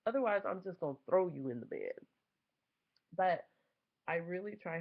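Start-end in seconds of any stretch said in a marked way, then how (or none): 0.1-2.1 high, loud mock outrage; incredulous critics. Other parents scoffing at her, high loud outrage. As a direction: play the shocked disapproving parent. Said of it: "a lot of people are like".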